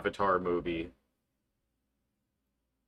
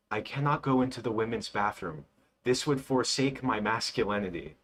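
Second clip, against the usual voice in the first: soulless robot voice; flat mechanical robot delivery; Freddy robot voice. Retold or imitated. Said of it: "his soulless robot voice".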